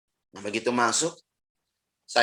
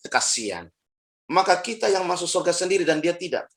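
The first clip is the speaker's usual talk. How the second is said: ordinary delivery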